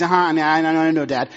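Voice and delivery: a hint of an impatient daughter; lightly voiced dismissive child. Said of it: "They're like".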